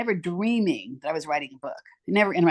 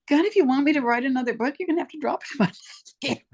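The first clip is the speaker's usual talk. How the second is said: prayer to God; 8 semitones higher, much faster than usual. Retold or imitated. Praying aloud to God.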